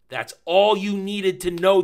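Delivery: "all" stretched high and loud, slow; stress on ALL. Real, not acted. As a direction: lean hard on "all", slowly. Emphatic review wrap-up.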